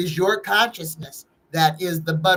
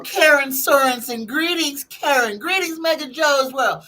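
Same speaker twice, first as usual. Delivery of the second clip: excited greeting; 7 semitones higher, 3 dB louder than usual. Real, not acted. Loud greeting to chat viewers.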